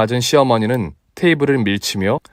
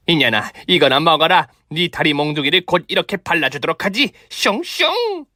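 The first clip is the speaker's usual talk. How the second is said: sneering mother-in-law voice; mock her while hurling bones; taunting old woman; 5 semitones higher than usual. Mother-in-law throwing chicken bones. (조롱하는 시어머니)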